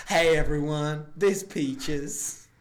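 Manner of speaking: put-on Georgia accent. Prompted by the other speaker, greeting everyone in a georgia accent. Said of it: "Just do a Georgia accent".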